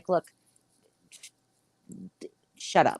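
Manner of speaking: curt, rude, dismissive whisper. Retelling what was said to a cop who asked to go inside, retelling being rude. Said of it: "I was like so rude to him".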